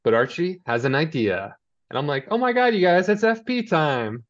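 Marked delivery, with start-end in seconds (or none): 2.3-4.2 high, giddy squeal of delight, slowing on "F P time"; excited squeal. Real, not acted. Fan gushing to co-host about FP's scene, giddy high squeal. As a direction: squeal like a fan whose favourite just showed up.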